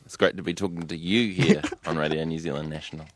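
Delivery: lightly put-on radio presenter voice, leaning on YOU; a touch of formal radio announcer. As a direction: try on a slight radio voice. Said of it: "trying to put on a slightly radio voice".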